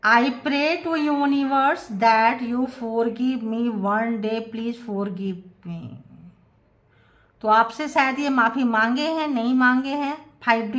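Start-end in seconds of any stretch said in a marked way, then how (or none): 0.0-5.9 slow channeled apology. Acted. Tarot reader voicing the partner's plea for forgiveness, slowly. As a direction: let the apology trail off slowly.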